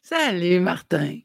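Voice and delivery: a lightly put-on Santa greeting, barely changed; just a hint of Santa in the hello; Père Noël voice. Coach greets the host in a faint mock Santa voice. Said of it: "j'ai une voix de Père Noël".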